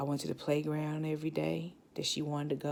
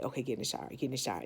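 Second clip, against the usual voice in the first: quiet self-coaxing; 3 semitones lower, 6 dB quieter, much faster than usual. Retold or imitated. Coaxing herself to shower.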